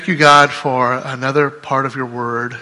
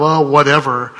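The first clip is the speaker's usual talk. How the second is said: mock careless shrug; 5 dB louder than usual. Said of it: "He doesn't have a sort of".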